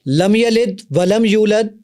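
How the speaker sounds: slow, drawn-out Quran recitation, read wrongly on purpose; deliberately wrong recitation. Shown as a demonstration. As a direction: recite لم یلد ولم یولد very slowly with a deliberate mistake. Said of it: "اب میں اس کو غلط پڑھوں گا".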